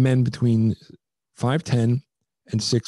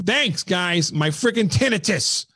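put-on cranky old man; 6 semitones higher, slower than usual. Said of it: "like an old man".

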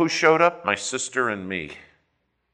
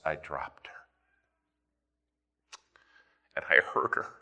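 hushed admission; 6 semitones lower, 6 dB quieter than usual. Real, not acted. Retelling dropping injured mom.

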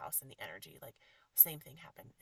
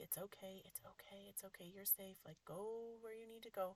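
soothing; 3 semitones higher, 3 dB quieter than usual. Real, not acted. Soothing a spirit in the house.

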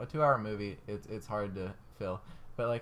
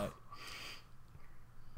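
wheezing laugh; 16 dB quieter than usual. Real, not acted. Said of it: "Listen to my dying sounds".

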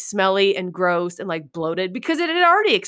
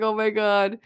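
laughing. Retold or imitated. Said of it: "trying really hard not to pee my pants laughing".

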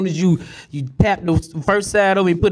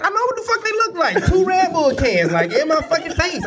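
mock exasperation; 10 semitones higher than usual. Retelling his complaint, high and laughing.

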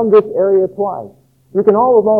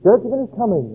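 higher, ringing prophetic proclamation; modern prophet proclaiming; 6 semitones higher than usual. Pretend. A prophet today warning the churches, higher and ringing. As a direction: thunder it out like an old prophet. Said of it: "prophet naming churches".

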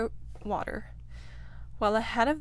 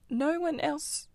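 incredulous; 6 semitones higher, slower than usual. Acted. Rat scoffs at the idea.

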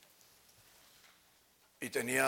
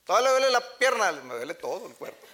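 put-on old man complaining; 8 semitones higher, 10 dB louder, faster than usual. Grandfather answers complaining.

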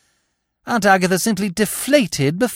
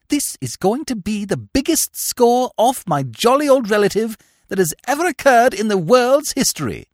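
exultant gentleman, pitched up; gleeful boast; 7 semitones higher than usual. Acted. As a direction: crow triumphantly over the plan. Gentleman gloats over his plan.

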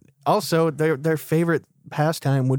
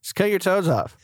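mock stepmother; 8 semitones higher than usual.

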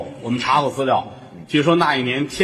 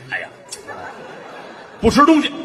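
mother sulking; 9 semitones higher, faster than usual. Retold or imitated. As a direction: whine it high, refusing food. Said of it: "妈这儿生气". (尖声撒娇的母亲)

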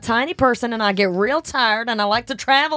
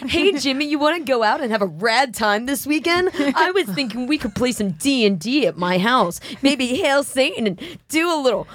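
mock PSA teen. Mock eighties teen PSA kid.

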